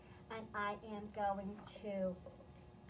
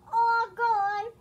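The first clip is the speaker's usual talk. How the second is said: high, loud cry of triumph; triumphant; 11 semitones higher, 15 dB louder than usual. Acted. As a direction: announce it proudly like a little boy. Max finishes the egg.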